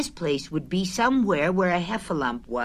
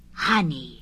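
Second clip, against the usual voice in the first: thoughtful; 3 semitones lower than usual. Acted. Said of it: "in a thoughtful way".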